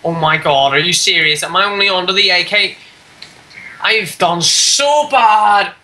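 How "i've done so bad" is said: slow, stretched despair; dragged-out whine. Real, not acted. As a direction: moan it out in defeat. Despairs at bad score.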